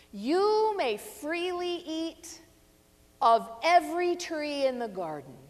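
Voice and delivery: scripture read out as a grand invitation; expansive proclamation. Acted. God's first command read out grandly.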